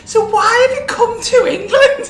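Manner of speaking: slow, high, loud Scouse woman; exaggerated Scouse, nosy and incredulous; mock Scouse accent. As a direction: draw it out in a squealing put-on Scouse. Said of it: "Is that your Scouse accent?".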